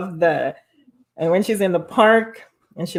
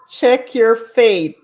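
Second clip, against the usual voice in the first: slow, drawn-out slogan; quoting Coco's slogan; 4 semitones higher, 7 dB louder, much slower than usual. Retold or imitated. Retelling Coco's slogan to viewers, slow and drawn out. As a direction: stretch every word like a motto. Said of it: "Coco said".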